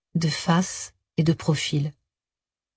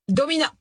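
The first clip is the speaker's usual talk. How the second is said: Domina pushed high and hard; stress on Domina; 8 semitones higher than usual. A narrator's reading. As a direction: lean on Domina provocatively. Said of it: "Il avait appuyé sur le dernier mot".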